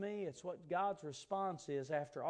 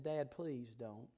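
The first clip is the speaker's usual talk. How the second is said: put-on slow, low, softened child's plea; earnest retold plea; 4 semitones lower, 4 dB quieter, much slower than usual. Son begging his dad to stay, subdued earnest plea. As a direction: quietly imitate an earnest begging kid. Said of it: "how earnest I was".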